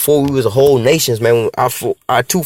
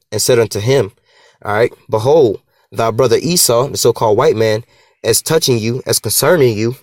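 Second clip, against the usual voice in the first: scripture reading. Acted. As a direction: read the verse out measured and steady. Reading scripture aloud slowly.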